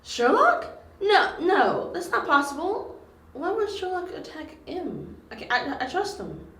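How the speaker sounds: high-pitched, protesting disbelief; loud outburst of denial that eases off; shocked disbelief. Acted. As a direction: refuse to believe it, voice jumping up high. Refusing news that friend was attacker.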